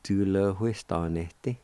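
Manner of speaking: "huiston" with a breath of H before the w; faint H before W. Shown as a demonstration. Teacher showing the aspirated sound, faint H before W. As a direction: say Tu lo huiston este measured, lightly aspirating "hui". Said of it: "It's pronounced like this".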